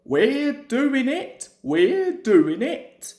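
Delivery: slow, strained push; straining effort. Acted. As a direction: grind it out slowly, pushing hard. Duck pushing uphill.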